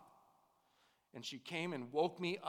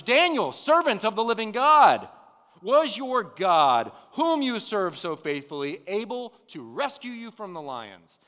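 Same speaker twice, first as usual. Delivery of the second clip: high, loud cry across a distance; calling out in anguish; 7 semitones higher, 14 dB louder than usual. A narrator's reading. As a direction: call out desperately, easing toward the end. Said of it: "he called out in anguish".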